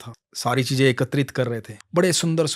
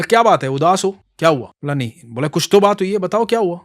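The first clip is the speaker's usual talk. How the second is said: put-on higher, louder boy asking; boy asks why the old man is sad; concerned boy; 5 semitones higher, 6 dB louder than usual. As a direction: press him kindly to tell.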